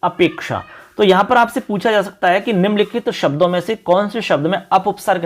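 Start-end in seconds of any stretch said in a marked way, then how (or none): 0.0-0.6 teacher repeating अपेक्षा clearly; careful repetition. Shown as a demonstration. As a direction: model the word अपेक्षा once more for students. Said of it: "गुण संधि होके अपेक्षा बन गया".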